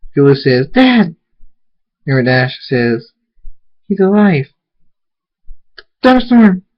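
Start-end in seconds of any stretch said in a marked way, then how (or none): 0.7-1.2 very high, loud cry to dad; excited child's exclamation; astonished joy. Acted. Child sees father alive. 3.9-6.6 high, loud excited cry; thrilled, raised outburst; amazed relief. Acted. Amazed that he is alive.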